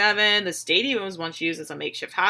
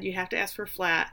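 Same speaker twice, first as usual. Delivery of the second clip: "You have to ask for flat" repeated much softer; muttered repeat; 6 dB quieter than usual. Real, not acted. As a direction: drop it to an aside.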